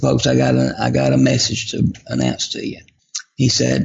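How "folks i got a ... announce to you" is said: usual speaking voice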